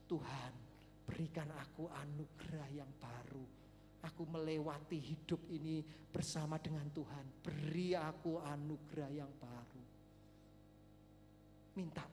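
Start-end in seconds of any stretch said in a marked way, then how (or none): 0.1-9.8 soft, low prayer to God; prayerful plea. Acted. Preacher models asking God for new grace, prayerful. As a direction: pray it gently, pitched low. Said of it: "biarlah kita mau minta sama Tuhan".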